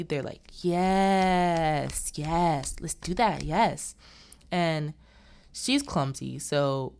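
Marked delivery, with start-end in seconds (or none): 0.6-3.9 eager agreement. Retold or imitated. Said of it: "they're happy".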